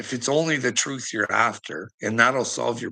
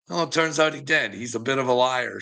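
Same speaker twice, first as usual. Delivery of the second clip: ordinary talk, nothing marked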